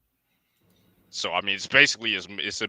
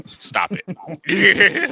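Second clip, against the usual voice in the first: yelling stop it in a high voice; loud high protest; 12 semitones higher, 10 dB louder than usual. Real, not acted. Protesting a gay joke.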